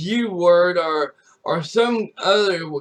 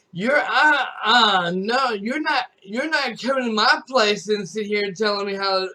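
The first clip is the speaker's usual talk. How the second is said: higher, louder indignant rant; retold angry refusal; 3 semitones higher, 4 dB louder than usual. Son refuses to stream with mom around, indignant rant. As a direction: lay down the law at mom. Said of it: "I like".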